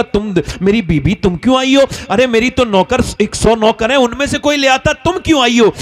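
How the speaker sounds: acting out a husband's puzzled surprise; lightly astonished husband; mild surprise. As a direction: question her with a touch of astonishment. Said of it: "हैरत का इजहार किया".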